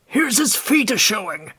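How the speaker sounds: high, loud exclamation; excited cry. A narrator's reading. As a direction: point it out excitedly. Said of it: "cried the constable".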